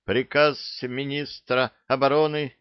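hurried, gabbled reading; rushed reading. A narrator's reading. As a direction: rattle it off fast. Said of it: "зачастил было".

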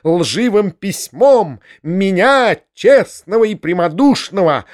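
shrill, self-righteous rant; squealing. Acted. Foma accusing the uncle of a false letter, shrill. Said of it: "визжал Фома".

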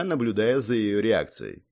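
ordinary delivery

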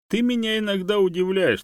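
high, loud snide jab. A narrator's reading. Monkey teasing her dog friend, snide and loud. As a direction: needle him with mock surprise. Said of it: "ехидно ответила Чанга".

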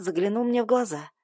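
ordinary delivery, nothing marked

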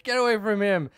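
put-on high, loud kid charging in; mock-heroic shout from a boy at play; play-fight shouting. Another kid comes running to defend, high mock shouting.

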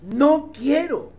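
sincere plea. Acted. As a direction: open your heart and beg. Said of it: "se pone sincero y dice".

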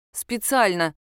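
ordinary delivery, nothing marked

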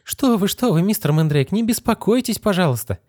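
a lightly voiced anxious mother; fussing mother. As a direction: hurry to calm the guest. Mother fussing over the guest.

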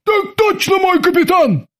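very high, obedient sailors' reply; high military acknowledgement from a cowed crew; blurted in unison. A narrator's reading. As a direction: answer the captain promptly in a high-pitched voice. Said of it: "в один голос выпалили".

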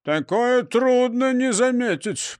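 slow, puffing in the heat; panting stout manager. A narrator's reading. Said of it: "пропыхтел управляющий Пузансон".

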